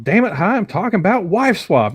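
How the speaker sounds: Nick Cage line. Retold or imitated. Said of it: "one line is like".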